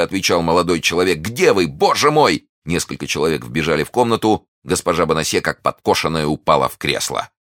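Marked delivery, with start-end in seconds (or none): 1.2-2.5 raised, urgent cry; higher, agitated exclamation; anxious calling. Acted. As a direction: call out searching for your love. Young man searches for his love.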